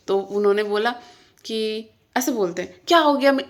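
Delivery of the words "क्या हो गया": mildly raised, imitated retort; mock loud outburst. Husband snaps back over the dal, mock loud outburst. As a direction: imitate his sudden loud comeback lightly. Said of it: "वो पहले ही loud हो जाते हैं".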